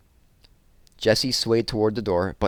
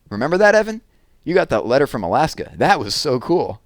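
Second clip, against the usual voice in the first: put-on slightly raised, lively taunting boy; mocking boy. Scott teases Jessie about skipping a grade, lively mocking boy voice. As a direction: rub it in that she missed a year.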